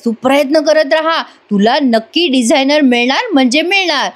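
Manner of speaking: butter him up ironically; mock praise. Kala mockingly praising Adwait.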